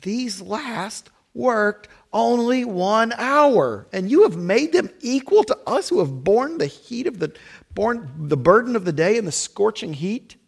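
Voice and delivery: high, loud whining protest; indignant laborers, pitched high and loud; grumbling complaint. Acted. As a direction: whine it like a worker who feels cheated. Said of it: "they grumbled at the master".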